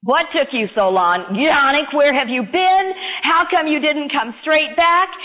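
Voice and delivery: mildly cross questioning; a touch of exasperated parent; mother scolding. Acted. Mother to son back late on train, mildly scolding.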